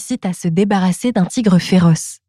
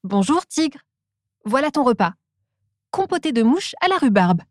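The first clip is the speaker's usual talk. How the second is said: Frog's voice; 4 semitones higher than usual. Acted. Frog brings lunch.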